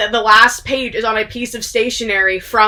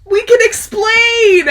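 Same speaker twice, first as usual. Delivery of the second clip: sheepish explaining; 11 semitones higher, 7 dB louder, much slower than usual. Retold or imitated. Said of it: "They're like".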